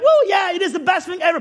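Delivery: put-on gushing about the best thing ever; faked excitement. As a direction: pretend to be thrilled, overdoing it. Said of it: "To you, you're like".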